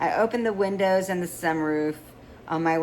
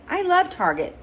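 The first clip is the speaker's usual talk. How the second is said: pitched way up and louder, mock gushing; sarcastic mock enthusiasm; 13 semitones higher, 5 dB louder than usual. Mother teasing her spoiled daughter, mock gushing. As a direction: overdo the delight to tease her.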